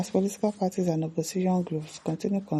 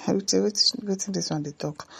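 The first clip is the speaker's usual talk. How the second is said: laughing disbelief; 3 semitones higher than usual. Real, not acted. Reacts to comment with a laugh.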